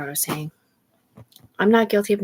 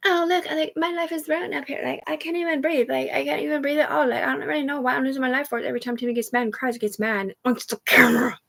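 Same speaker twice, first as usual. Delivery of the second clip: much higher whiny mimicry; mock the people moaning about their ruined lives; high, hammed-up complaining voice; mocking whiner; 8 semitones higher than usual. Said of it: "everybody else is up here saying".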